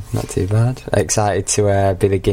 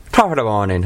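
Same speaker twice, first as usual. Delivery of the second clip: jokey stage-Irish greeting; Irish accent. Acted. Hamming it up for the host, mock Irish accent. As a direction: put on a stock Irish accent. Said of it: "I was gonna do an Irish accent, but it might have turned Scottish".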